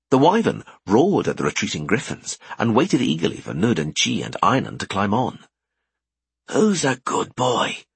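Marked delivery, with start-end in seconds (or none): 6.5-7.8 slow, sing-song praise for a pet; baby talk to pet. Acted. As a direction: coo at the good boy.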